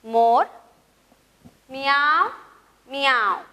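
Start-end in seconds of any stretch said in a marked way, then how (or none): 1.7-3.4 drawn-out "miaao", rising then falling; peacock call. Shown as a demonstration. Teacher voicing peacock calls for pupils to repeat, drawn-out mews. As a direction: imitate a peacock's mewing call. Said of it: "माझ्या मागं म्हणायचंय".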